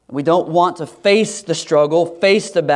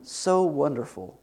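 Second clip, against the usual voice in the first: softer, dreamy sigh of fond memory; mock nostalgic; 6 dB quieter than usual. Preacher mimicking Israelites recalling Egypt, mock wistful. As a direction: drift off wistfully, a touch hammed-up. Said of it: "And here they're like".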